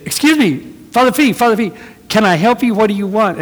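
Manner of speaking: high, sing-song mock politeness; needling secretary. Secretary calling out to priest to annoy him, in a high mock-sweet voice. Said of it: "she'd say".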